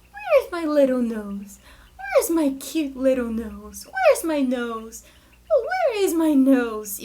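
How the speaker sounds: put-on slow, sing-song parentese to a baby; baby talk. Shown as a demonstration. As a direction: coo it slowly to a baby, stretching every word. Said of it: "quando a gente vai com aquela vozinha assim, pequenininha".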